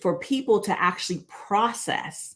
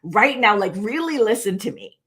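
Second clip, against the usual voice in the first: slightly raised voice, not yelling; raised volume; 2 semitones higher than usual. Shown as a demonstration. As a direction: press the point with more volume. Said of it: "I might raise the volume of my voice".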